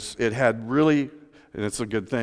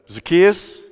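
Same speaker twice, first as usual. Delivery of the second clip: calling out Zacchaeus up the tree; louder, rising call of a name; 4 semitones higher, 6 dB louder than usual. Acted. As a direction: call his name up into the branches. Jesus calls up to tree.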